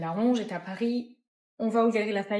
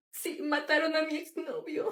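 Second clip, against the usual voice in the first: higher, playful put-on Latino accent; hammed-up Latino accent, pitched up; 5 semitones higher than usual. Natalia on fleeing the cartel, hammed-up Latino accent. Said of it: "Avec un petit accent latino".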